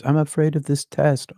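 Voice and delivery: high, worried inner voice; mock the fretful mind; a touch of mock panic; anxious self-quote. Mimicking own anxious thought.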